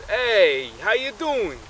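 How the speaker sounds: high, punchy phone hello; main guy on phone. Acted. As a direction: call out a casual hello to the ex. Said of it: "and he says".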